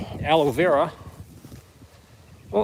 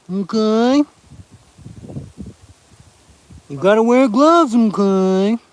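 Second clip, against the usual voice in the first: loud emphatic warning; 7 semitones higher, 6 dB louder, slower than usual. Real, not acted. Warning viewers about infections.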